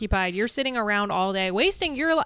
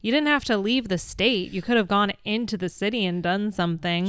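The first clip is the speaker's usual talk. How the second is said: exasperated scolding; 2 semitones higher, 3 dB louder than usual. Retold or imitated. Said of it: "But I'm like".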